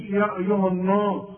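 "النار" thickened toward "النوس" in the phrase; wrong heavy vowel. Shown as a demonstration. Teacher showing what not to say, wrong heavy vowel. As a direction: darken the long a in "يا أيها النار". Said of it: "ما تقولش".

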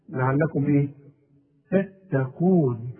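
slow تتقون with a heavy qaf; careful pronunciation. Shown as a demonstration. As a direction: draw out تتقون, press the qaf. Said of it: "القاف مفخمة".

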